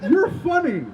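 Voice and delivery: sarcastic mock. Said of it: "He's like".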